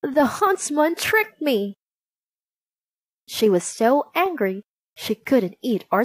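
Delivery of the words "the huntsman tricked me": slow, high-pitched indignation; furious queen. A narrator's reading. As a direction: draw out the accusation in restrained fury. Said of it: "The queen spat in fury".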